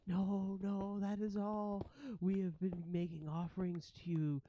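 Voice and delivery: lightly voiced anxious creature; a little high at first, explaining nervously; appeasing ratling. Ratling tells ghosts of offerings, mildly anxious appeasement. Game master plays the ratling.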